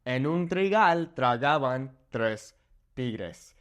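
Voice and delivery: slow, deliberate rolled R's; careful teacher demo; slow careful model. Shown as a demonstration. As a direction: model Tres tristes tigres slowly for learners. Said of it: "Next tongue twister".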